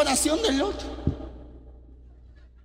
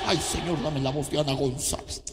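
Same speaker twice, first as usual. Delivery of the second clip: much lower, softer mocking whine; mock whiny prayer; 13 semitones lower, 9 dB quieter, faster than usual. Preacher mocking a girl who begs God for another singer's voice, whining low. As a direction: parody a vain singer's sighing prayer.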